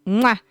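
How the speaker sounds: goodnight kiss. Pretend. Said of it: "Here's your early good night kiss".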